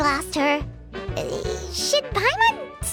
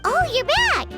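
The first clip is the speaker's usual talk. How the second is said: excited greeting; 5 semitones higher than usual. Acted. Greeting a returning examiner.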